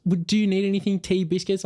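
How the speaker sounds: high, friendly offer; lovely and friendly. Retold or imitated. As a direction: imitate a lovely, attentive hostess. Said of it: "she was just lovely".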